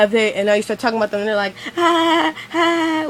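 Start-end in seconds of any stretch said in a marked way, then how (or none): 1.8-3.0 high, drawn-out mock laugh; imitated laughter. Friends laughing along at a joke, mock laughter. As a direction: fake a high laugh, held long. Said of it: "they're laughing with you".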